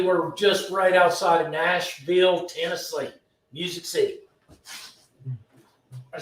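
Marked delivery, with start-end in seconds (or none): 0.0-4.2 lightly put-on Southern accent; best Southern accent. Host telling viewers where the shop is, in a mild mock Southern accent. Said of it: "with my best Southern accent".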